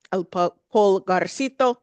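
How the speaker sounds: retry Pulgarcito with a careful Spanish accent. Shown as a demonstration. Naming a favorite Central American restaurant, Spanish accent. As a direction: say Pulgarcito in an attempted Spanish pronunciation. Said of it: "do a little bit better with the accent".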